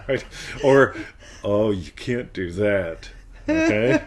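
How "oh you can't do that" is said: slow, drawn-out put-on tone; changed tonality. Shown as a demonstration. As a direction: stretch the words out playfully. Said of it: "The tonality changes everything".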